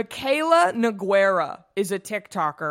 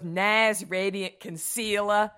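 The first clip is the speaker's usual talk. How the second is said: put-on Boston accent; slower than usual. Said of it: "this really thick Boston accent".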